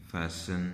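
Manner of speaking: "फैशन" for fasten, said "fassen"; silent T. Shown as a demonstration. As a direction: say "फैशन" as fas-en, s into n with no t. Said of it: "हम इसे silent कर देते हैं".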